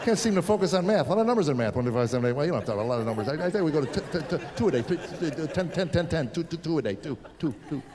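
stuttering, stuck-on-numbers rambling; jittery medicated kid. Retold or imitated. Son to dad about his dosage, jittery. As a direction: stammer and repeat like a kid wired on pills.

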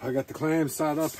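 put-on light Newfoundland accent; Newfoundland twang slipping in; Newfie accent. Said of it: "Sorry, I'm talking like a newfie".

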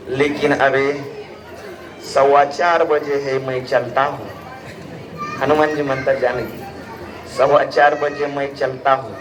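low and unhurried farewell; Hanuman taking leave. Acted. Hanuman takes leave of Sita.

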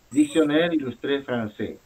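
"Dictionnaire illustré français" in French, silent final S; French pronunciation. Shown as a demonstration. Teacher models the title for Rachel, French pronunciation. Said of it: "porque hay un acento en la E".

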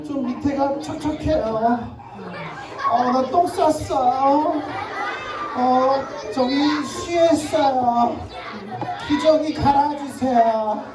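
put-on baby voice. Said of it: "이렇게 지금 서유리가".

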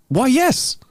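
high-pitched astonished confirmation; acted surprise, voice leaping up; surprised. Old man asked if he was a carpenter, surprised. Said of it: "The man looked up in surprise".

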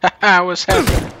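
laughing while asking what's up; laughing in disbelief. Real, not acted. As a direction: chuckle through the question. Laughing at stranger in game.

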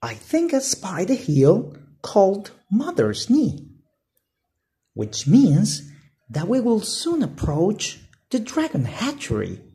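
put-on high boy call, excited; Flynn, spotting something. Flynn points out the hill to his brother, excited. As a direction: point it out eagerly. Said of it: "said Flynn".

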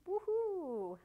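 high, loud woohoo; long, loud whoop of delight; celebratory cheer. Real, not acted. Cheers at finished step.

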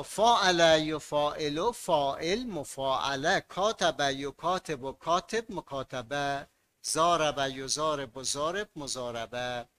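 slow, measured reading of forms; slow recitation. Shown as a demonstration. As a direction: recite the paradigm evenly. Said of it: "teacher recites paradigm". (شمرده)

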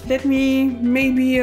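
ordinary delivery

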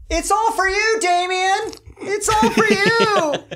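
high, slow eerie sing-song; creepy ghost voice. Retold or imitated. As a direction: call out like a haunting spirit. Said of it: "I get this, like".

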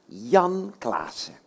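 slow, stretched call of the name; drawn-out name call. Shown as a demonstration. Host shows kids how to call the puppet, slow and drawn out. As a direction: draw the name out like a practice shout. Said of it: "dan roepen we allemaal tegelijkertijd".

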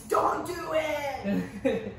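slow, drawn-out laughing plea; laughing warning. Real, not acted. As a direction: warn them through laughter.

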